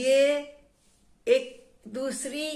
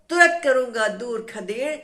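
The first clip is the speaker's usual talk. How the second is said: louder, rising threat; angry threat; 6 dB louder than usual. Acted. Tree threatening the teasing wind, loud angry threat. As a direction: push the threat out hard at the wind. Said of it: "गुस्से में वो जो है हवा पर नाराज हो गया".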